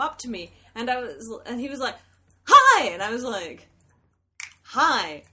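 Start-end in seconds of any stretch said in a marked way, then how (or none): 2.5-2.9 very loud, high-pitched imitated greeting; excited fan greeting. Fan approaching her in a New York bar, excited shout. 4.6-5.2 usual pitch, held-back imitated greeting; retold puzzled reply. Drunk woman answering an unknown fan in a bar, puzzled.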